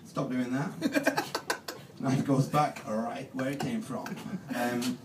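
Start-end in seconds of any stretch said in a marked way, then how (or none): 0.1-1.2 slow, drawn-out startled voice; mock startled. Lad startled by the talking knife, slow plea. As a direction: recoil and plead, very slow. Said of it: "I'm like".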